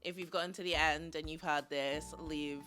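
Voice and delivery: low, creaky YouTube voice; vocal fry. Real, not acted. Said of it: "a bit of, like, a vocal fry".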